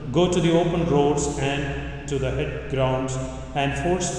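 loud, measured liturgical proclamation; gospel reading. Real, not acted. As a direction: proclaim it as at Mass. Priest proclaims Gospel at Mass.

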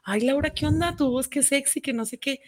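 mock admiring friend raving about her voice; gushing compliment. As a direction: gush over her voice lightly. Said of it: "mandar audios".

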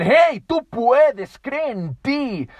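very high, loud rallying cry; loud coach-like pep call; powerful encouragement. Shown as a demonstration. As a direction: fire them up.

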